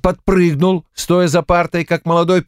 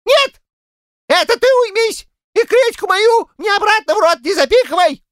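high falsetto yell; old man shouting in falsetto. A narrator's reading. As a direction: shriek it back in falsetto, heated. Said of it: "закричал фальцетом дед Щукарь".

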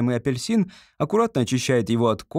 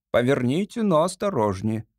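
stern lady order. Acted. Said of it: "прежним резким, размеренным голосом".

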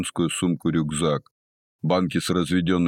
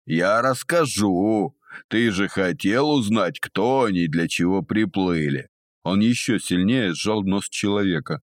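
sneering panto villain. Acted. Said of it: "злорадно ухмыльнулся Тудди".

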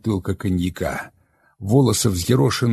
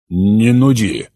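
very calm; 7 dB louder, much slower than usual. Acted. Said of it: "очень спокойно".

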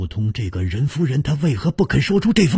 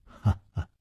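long laugh; 8 dB quieter than usual. A narrator's reading. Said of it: "楚留香长笑说".

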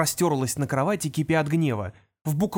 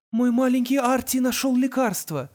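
mother's voice; 9 semitones higher than usual. A narrator's reading.

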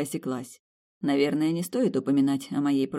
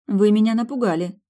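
meaningful; 7 semitones higher, 8 dB louder than usual. A narrator's reading. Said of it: "произнесла многозначительно".

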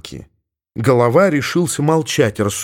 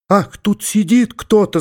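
frightened scream; 8 semitones higher than usual. A narrator's reading. The girls scream in fright at something inside the sack. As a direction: shriek it as if something moved in the sack. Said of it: "закричали все и в испуге".

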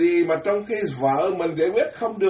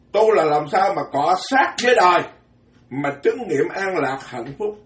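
emphatic; 2 semitones higher, 4 dB louder than usual. Real, not acted. Preacher drives home his point.

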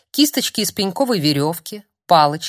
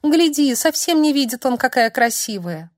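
much higher, weepy plaint; tearful complaint; 7 semitones higher than usual. Acted. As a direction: complain through tears. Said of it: "пожаловалась сквозь слёзы".

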